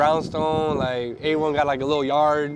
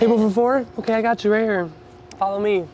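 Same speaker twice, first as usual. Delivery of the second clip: a hint of a perky hostess; mock host greeting; 6 semitones higher than usual. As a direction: play the restaurant host seating a table. S0 playing restaurant host.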